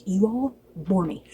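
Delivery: slow, bored dismissal; mild mock royal boredom; bored outburst. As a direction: drawl it out, fed up. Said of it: "he just has this outburst".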